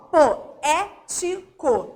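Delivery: "poético" very slowly split as po, é, ti, co; syllable by syllable. Shown as a demonstration. Teacher showing the proparoxytone, "poético" in separate syllables. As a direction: count out each syllable of "poético". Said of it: "Repara, ó, eu tenho aqui a última sílaba".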